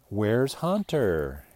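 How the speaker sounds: slow, stretched "Where's Hunter?" like a T-shirt slogan; slogan, drawn out. Shown as a demonstration. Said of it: "He wants to get a t-shirt made".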